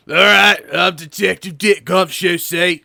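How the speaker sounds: slow, hammed-up Australian detective; mock Australian accent. Detective introducing himself, odd Australian accent. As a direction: introduce yourself in bad Australian. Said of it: "I'm just gonna go Australian".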